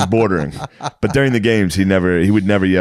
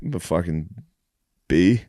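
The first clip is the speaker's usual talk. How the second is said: sullen mumble; 5 semitones lower, 5 dB quieter than usual. Retold or imitated. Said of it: "I was like".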